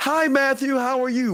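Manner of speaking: bright, happy, very high, slow cheerful voice. Teacher demonstrates a greeting for the student to name the tone: happy, cheerful tone. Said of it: "She's happy. / Yeah, okay, right".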